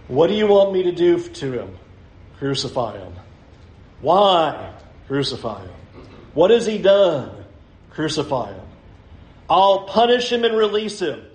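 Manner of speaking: crowd and Pilate exchange. Acted. Preacher acting out Pilate against the chanting crowd. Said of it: "Can you visualize what that would have sounded like?".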